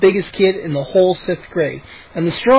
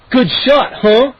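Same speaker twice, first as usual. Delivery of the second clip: grinning; 6 semitones higher, 4 dB louder, slower than usual. A narrator's reading. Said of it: "He grinned".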